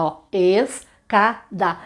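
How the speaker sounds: "escada" bem devagar, es-ca-da; sílabas marcadas. Shown as a demonstration. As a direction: separe "escada" abrindo a boca. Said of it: "quantas vezes a boca abre pra dizer escada". ("escada" silabado devagar)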